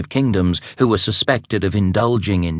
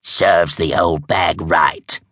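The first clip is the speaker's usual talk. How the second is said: snapping; 2 semitones lower, slower than usual. Acted. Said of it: "Truda snapped".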